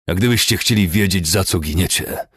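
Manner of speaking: angry, winded threat; panting. A narrator's reading. Commander beating captives tells them why, panting. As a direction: puff it out between blows. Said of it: "wysapał".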